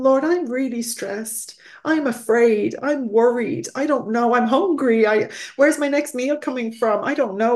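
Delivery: tearful prayer. Real, not acted. Guest voicing her own prayer to the Lord, tearful and pleading. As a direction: pray it close to tears. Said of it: "I'm getting very emotional".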